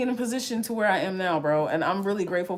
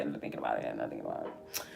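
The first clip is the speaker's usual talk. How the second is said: fading mantra; 16 dB quieter, faster than usual. Retold or imitated. Repeating mantra, fading away.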